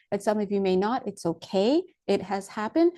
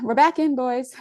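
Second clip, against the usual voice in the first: excited cheer; 4 semitones higher, 3 dB louder than usual. Real, not acted. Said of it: "celebrating return".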